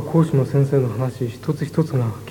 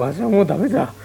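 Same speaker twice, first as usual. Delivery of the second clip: put-on creaky wise old man; 5 semitones higher than usual. Friend asks how exam went.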